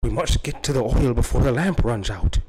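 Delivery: put-on old-timey transatlantic movie voice; clipped old Hollywood ghost talk; transatlantic accent. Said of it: "they always talk like this one old school ghost or transatlantic accent".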